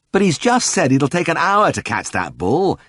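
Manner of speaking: high, urgent outburst; agitated protest. A narrator's reading. Vet protesting to Ted with arms waving, high and agitated. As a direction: wave it away in alarm. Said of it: "I waved my arms around".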